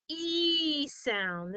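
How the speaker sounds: "E" held long, a clear long ee; long E sound. Shown as a demonstration. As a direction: stretch the "E" into a long ee. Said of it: "this long E sound".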